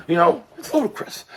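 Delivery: a hint of Tyson on "ludicrous"; lighter Mike Tyson impression. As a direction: say "ludicrous" near your normal pitch, slight rise. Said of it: "I sound like a hoarse white Mike Tyson".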